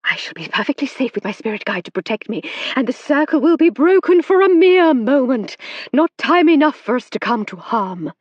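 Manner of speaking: high, loud urgent reassurance; calm the panicking table loudly. A narrator's reading. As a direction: medium reassuring the circle over noise. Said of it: "shouted Madame Eugenie".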